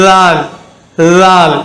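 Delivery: லால் begun with tongue between the teeth; light tongue-out dh. Shown as a demonstration. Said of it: "லைட்டா உச்சரிக்கணும்".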